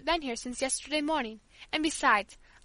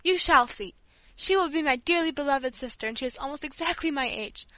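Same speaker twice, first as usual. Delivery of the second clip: tearful; 3 semitones higher, 4 dB louder than usual. Acted. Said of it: "as I burst into tears".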